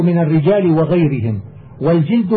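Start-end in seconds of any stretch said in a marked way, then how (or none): 1.8-2.3 والجلد with short i after jim; vowelled jild. Shown as a demonstration. Teacher explaining the word for skin says والجلد as "wal-jild". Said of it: "بالكسر إهاب كل شيء".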